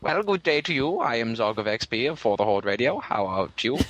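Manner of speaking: polite British greeting; British-accented radio introduction; put-on British accent. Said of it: "Apparently he's gone British".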